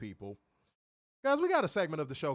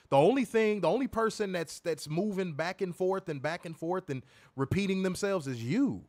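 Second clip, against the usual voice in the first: louder, higher heated argument; 5 semitones higher, 3 dB louder than usual. Real, not acted. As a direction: press the point hard. Heated debate.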